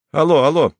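Mario calls the base in radio voice; standard radio voice. A narrator's reading. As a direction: call into the mic like a radio operator. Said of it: "стандартным радиоголосом".

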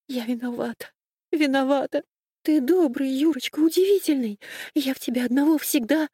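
grovel to calm him down; frightened pleading. Acted. Frightened wife flattering, apologising.

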